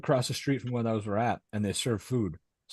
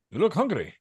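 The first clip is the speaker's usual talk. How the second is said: caring neighbor voice; 8 semitones higher, 4 dB louder than usual. Retold or imitated. Jose voiced.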